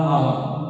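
"الله" begun with a long "آ"; wrongly lengthened hamza. Shown as a demonstration. Teacher repeating the mistake for students, first hamza stretched. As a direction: drag out the opening vowel of "الله". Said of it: "هذا خطأ".

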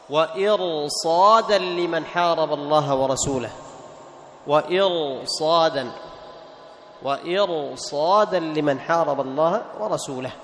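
measured tajweed recitation, drawn out; slow Quran recitation. Shown as a demonstration. Teacher chants the verse slowly for students.

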